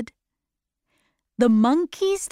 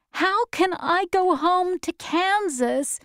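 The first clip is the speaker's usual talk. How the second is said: put-on high, plaintive girl's voice; sad question; 8 semitones higher than usual. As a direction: ask it sadly in a raised pitch. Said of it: "Dorothy asked her friends sadly".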